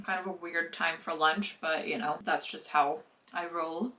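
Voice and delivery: talking while chewing; words around a mouthful of rice; mouth full. Real, not acted. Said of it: "talking with my mouth full".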